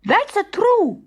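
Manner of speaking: a high comic bandit's agreement; agreeing bandit. Acted. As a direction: chime in eagerly. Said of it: "said Luigi, nodding".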